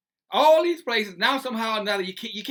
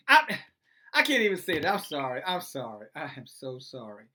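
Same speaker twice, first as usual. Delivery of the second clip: laughing apology; 5 semitones lower than usual. Real, not acted. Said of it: "laughing to keep from crying".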